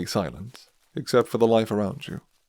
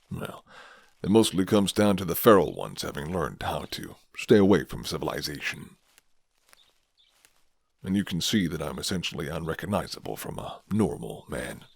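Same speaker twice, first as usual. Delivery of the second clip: a hint of a guarded werewolf offering shelter; gruff werewolf man; 4 semitones lower than usual. Werewolf explains his kind.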